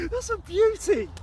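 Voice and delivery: high, slow, delighted admiration; admiring. Real, not acted. Angler admiring his pike, high and slow. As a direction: savour the beauty of the fish.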